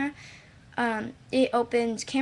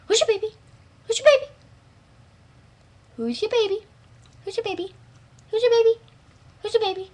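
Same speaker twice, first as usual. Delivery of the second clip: high, loud singsong coo; 8 semitones higher, 6 dB louder, faster than usual. Real, not acted. Girl cooing at her dog who licks his nose, high baby talk.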